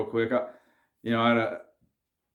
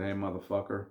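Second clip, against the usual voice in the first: softer, dead calm warning; calm quiet threat; 3 semitones lower, 8 dB quieter than usual. Retold or imitated. Gangster coolly threatening the buddy's dad, calm and soft. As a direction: say the threat softly and evenly. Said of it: "addressed him very calmly".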